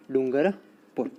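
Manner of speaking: डूंगरपुर slowly, split into डूंगर and पुर; slow, measured dictation of डूंगरपुर; dictation pace. Real, not acted. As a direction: draw out डूंगरपुर part by part for note-takers. Teacher repeats it slowly for dictation.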